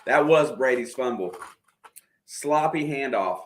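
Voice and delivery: talking with a mouthful; eating while talking; wolfing down food. Real, not acted. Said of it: "I apologize for eating".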